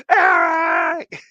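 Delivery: loud, low shouted call; shouted name. Shown as a demonstration. Streamer demonstrates being hailed across a room. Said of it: "If you see me across the room".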